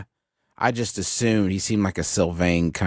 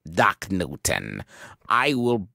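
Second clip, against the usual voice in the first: solemn slow pronouncement; 2 semitones lower, slower than usual. Acted. Player quotes Beacon, solemn and slow.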